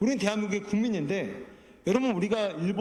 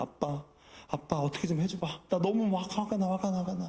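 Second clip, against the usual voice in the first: put-on crying young child voice, much slower. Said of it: "은희가 막 울면서 저한테 그러는 거예요".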